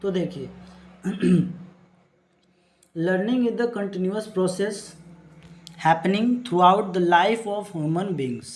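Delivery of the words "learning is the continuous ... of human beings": each English word spaced out for students to write down; slow dictation reading. Acted. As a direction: dictate the definition word by word, very slowly. Reads definition slowly, dictation-like. (बहुत धीरे, लिखवाने के अंदाज़ में)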